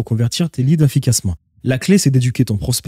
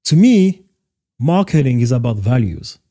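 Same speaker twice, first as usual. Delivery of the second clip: citation en anglais américain, lancée haut et fort puis lente; Steve Jobs quote. Retold or imitated. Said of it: "la vidéo de Steve Jobs qui en parle". (le coach cite Steve Jobs en anglais américain)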